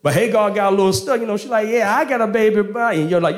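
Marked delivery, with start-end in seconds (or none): 1.7-2.9 mock bragging. Acting out Hagar boasting.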